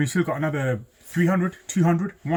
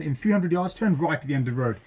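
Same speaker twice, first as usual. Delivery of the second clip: sat nav voice. Retold or imitated. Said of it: "the first instruction has been given by the sat nav".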